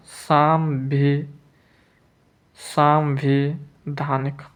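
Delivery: सांविधानिक slowly in pieces, सां-वि-धानिक; slow dictation. Shown as a demonstration. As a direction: break off after सांवि, then give all of सांविधानिक. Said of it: "सांविधानिक कैसे लिखेंगे".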